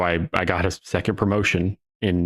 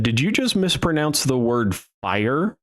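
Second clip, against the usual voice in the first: deadpan; 5 semitones higher than usual. Retold or imitated. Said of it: "no joking tone".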